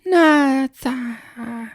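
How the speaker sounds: faint breathy whisper, voice almost gone; tiny whisper. Retold or imitated. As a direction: whisper it shyly, barely audible. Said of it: "that's what she sounded like".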